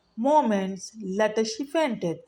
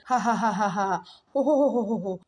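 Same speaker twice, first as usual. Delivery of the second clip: big hearty lioness laugh; roaring laughter; much faster than usual. A narrator's reading. Lioness laughs at the mouse's offer. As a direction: boom out a mocking laugh. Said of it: "roared again, only this time with laughter".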